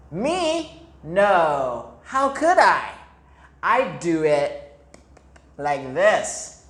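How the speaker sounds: a cheeky hare denying it; hare's reply. Acted. Hare answering the mole, mock innocent and loud. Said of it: "answered the hare".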